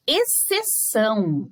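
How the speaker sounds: "Exceção" devagar, EX, CE, ÇÃO bem marcados; palavra pausada. Shown as a demonstration. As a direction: articule "Exceção" sílaba por sílaba. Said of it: "palavras com X e C". ("Exceção" lento e silabado)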